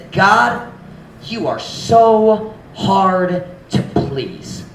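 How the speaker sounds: slow, drawn-out complaint; a hint of attitude. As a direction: sigh out the grievance slowly. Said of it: "That attitude says".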